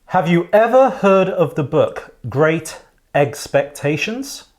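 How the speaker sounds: slow, deliberate joke setup; stand-up setup. Shown as a demonstration. Host demonstrating how to tell a joke. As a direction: lay out the setup like a comic. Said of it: "this is how you deliver it".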